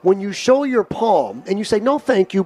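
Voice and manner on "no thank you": polite, calm no thank you; pleasant refusal. Shown as a demonstration. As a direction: decline pleasantly.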